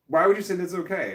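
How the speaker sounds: mock her outrage; imitating angry ex. Ex-wife on the phone about the show, mock exasperated. And she's just like.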